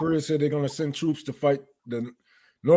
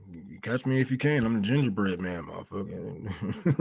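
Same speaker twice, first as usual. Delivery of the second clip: mock gingerbread taunt; 8 semitones lower, 9 dB quieter than usual. Taunting viewers, gingerbread man.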